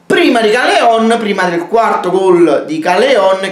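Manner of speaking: bursting in with excited praise; breathless italian goal commentary. Real, not acted. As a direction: call the goalscorer's name with a rush of excitement. Fan vlogger praising the goalscorer.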